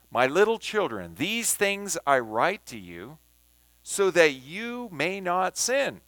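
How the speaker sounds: measured reading, phrases set apart by pauses; emphatic scripture reading. Shown as a demonstration. Teacher rereads the passage in New King James, emphatic scripture reading. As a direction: read the verse deliberately, settling down at its close. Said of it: "I'm going to emphasize words".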